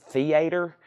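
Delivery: theater with a southern "thee-AY-ter"; southern accent. Shown as a demonstration. Seller testing their theater for a southern accent, southern accent. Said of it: "Is that some kind of southern accent".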